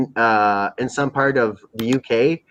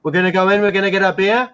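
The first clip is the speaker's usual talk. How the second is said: higher, put-on English street accent; acting famous; 6 semitones higher than usual. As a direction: play the self-important English MC. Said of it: "he always acts really famous".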